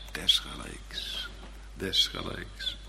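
fluisterend en langzaam herhaald; gefluisterd. Real, not acted. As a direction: fluister het woord "desgelijks" langzaam na. (fluisterend, traag: "desgelijks")

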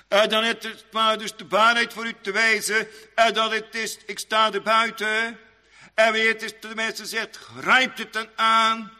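loud, high pulpit declamation; forceful preaching. Real, not acted. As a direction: intone it forcefully, phrase by phrase. Urgent preached appeal.

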